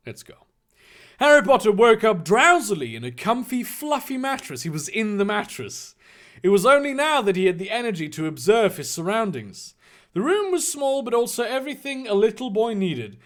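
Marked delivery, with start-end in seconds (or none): 1.2-13.2 lively storybook reading voice; theatrical narrator; story narration. A narrator's reading. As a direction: read it out like a children's tale, lifted.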